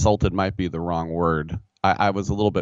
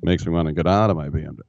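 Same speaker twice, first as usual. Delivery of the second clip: folksy mock-humble plea to the court; caveman lawyer impression; 2 semitones lower than usual. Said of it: "I sound like Key Rock now".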